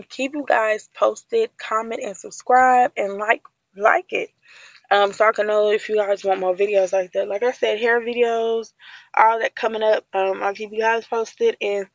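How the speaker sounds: talking through chewing gum; casual sign-off, chewing gum. Real, not acted. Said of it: "sorry for my gum chewing".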